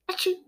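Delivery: a quick sharp sneeze. Acted. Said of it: "echoed with another sneeze".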